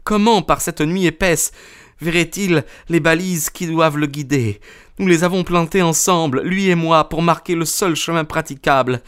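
high-pitched vengeful female character; high woman's voice, grimly triumphant; exulting wronged wife. A narrator's reading. Narrator voices Mrs Stapleton exulting.

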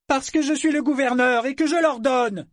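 furious spat retort. A narrator's reading. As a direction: spit the words in rage. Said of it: "cracha-t-il fou furieux".

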